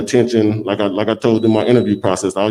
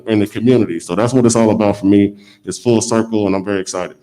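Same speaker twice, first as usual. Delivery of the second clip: muffled. Real, not acted. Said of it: "Sorry if it's muffled. I got this on my mouth".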